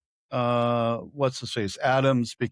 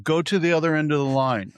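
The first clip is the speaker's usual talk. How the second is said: higher, quick mock command; brusque order; 5 semitones higher, 4 dB louder, faster than usual. Coffee worker sending customer down the line, curt. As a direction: imitate a curt counter worker.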